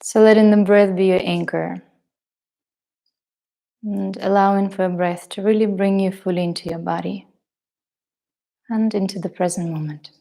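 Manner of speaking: measured meditation guidance with long pauses; guided meditation. Acted. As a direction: guide them gently into the breath, leaving space between phrases.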